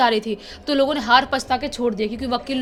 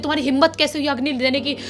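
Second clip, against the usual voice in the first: furious shouting; faster than usual. Retold or imitated. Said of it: "चिल्लाने लगती है".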